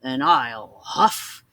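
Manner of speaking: wolf gloating at the pig; laughing wolf. Acted. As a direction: draw out the threat slowly. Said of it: "he cried".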